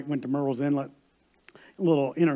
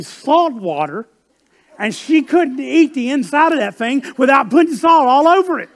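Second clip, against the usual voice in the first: much higher and louder, slow, stunned disbelief; amazed outburst; 6 semitones higher, 6 dB louder, slower than usual. Acted. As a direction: preach the shock out loud, half laughing. Preacher's amazed climax.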